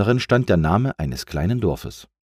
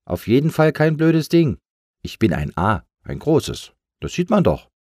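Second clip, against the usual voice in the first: higher-pitched huffy retort; indignant, angry; 8 semitones higher, 3 dB louder than usual. A narrator's reading. Big A answers the one who insulted it, indignant. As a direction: protest crossly, insulted and emphatic. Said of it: "Wütend schüttelte sich das A".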